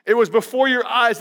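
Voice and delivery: amused, half-laughing rebuke; laughing mock greeting. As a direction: tease them with the insult. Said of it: "Imagine if my first letter".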